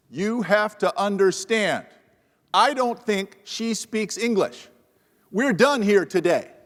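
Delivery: hint at the yelling without going loud, slowly; mild mock shout. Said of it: "And he starts shouting. I'm not gonna shout loud".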